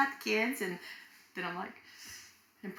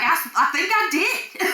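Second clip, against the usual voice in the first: higher, slow, hesitant husband voice; unsure husband; 8 semitones higher, 4 dB louder than usual. Retold or imitated. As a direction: let him sound not quite sure. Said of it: "And he's like".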